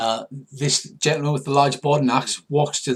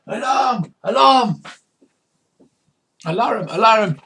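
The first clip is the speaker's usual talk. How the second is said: high, loud repeated alarm cry; shouting the alarm; 10 semitones higher, 8 dB louder than usual. Acted. Pirate grabs his sword to warn crew, shouting. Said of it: "he grabs his sword and he shouts".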